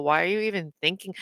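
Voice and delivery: ordinary talk, nothing marked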